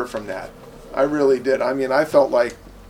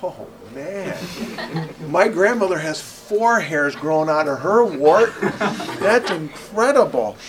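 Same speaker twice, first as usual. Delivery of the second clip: laughing, tactless marvelling; mock tactless gawking; 3 semitones higher, 3 dB louder than usual. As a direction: gawk at the wart with a laugh. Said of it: "stare at the wart and go".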